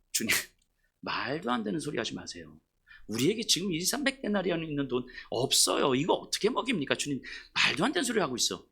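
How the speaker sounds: soft, dismissive mock scoff; scoffing disciples. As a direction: brush off the master with a snort. (제자가 주님의 말을 비웃으며 부드럽게 핀잔하듯)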